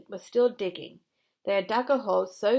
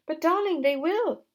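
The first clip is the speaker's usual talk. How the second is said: sobbed; 9 semitones higher, 6 dB louder than usual. Acted. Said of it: "sobbed Missus Fox".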